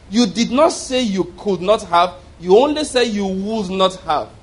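slow, weighty "could not" set against "would not"; emphatic correction. Retold or imitated. Retold man disputing what the Lord said, slow emphatic correction. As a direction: lean hard on "could not" and "would not", word by word.

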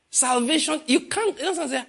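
high, laughing through the point; amused disbelief, chuckling. Real, not acted. Preacher laughing as he corrects the congregation's words.

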